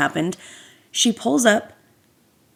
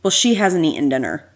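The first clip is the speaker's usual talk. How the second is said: rude dad; 4 semitones lower than usual. Retold or imitated. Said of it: "rudely is like".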